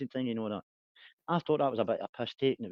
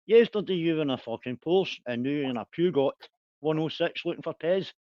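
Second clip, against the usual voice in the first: mock taunt; 7 semitones higher, 6 dB louder than usual. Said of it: "So I said".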